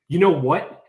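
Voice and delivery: retold rising anger. Storyteller imitates drunk man getting angry, mild loud challenge. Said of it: "he starts getting angry again".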